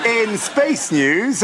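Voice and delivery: slow laughing Southern drawl on "in space news"; mock Southern accent. Host retrying his Southern Belle accent on the headline. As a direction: draw out "in space news" in a put-on Southern twang. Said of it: "let's give it one more go".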